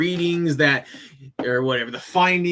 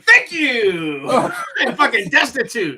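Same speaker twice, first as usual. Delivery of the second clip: louder, higher thanks through laughter; laughing; 6 semitones higher, 5 dB louder, slower than usual. Real, not acted. Telling friends about the judge, laughing hard. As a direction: laugh it out at the absurd ruling. Laughing at being declared destitute.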